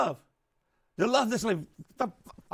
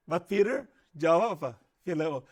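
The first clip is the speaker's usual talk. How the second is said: usual speaking voice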